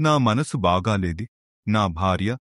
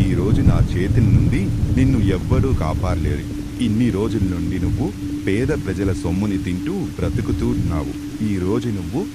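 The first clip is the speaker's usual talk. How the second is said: menacing threat. Acted. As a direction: growl a threat at the victim. Robber threatens his victim.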